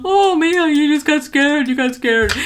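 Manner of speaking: a hint of mom calming her daughter; soothing mother. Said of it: "my mom's just going".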